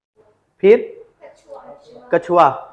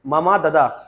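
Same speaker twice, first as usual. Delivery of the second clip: slow, deliberate dictating pace; teacher dictating the word list slowly; slow dictation; 2 semitones lower, slower than usual. Shown as a demonstration. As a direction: read it out slowly so they can write. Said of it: "तो लिख लो".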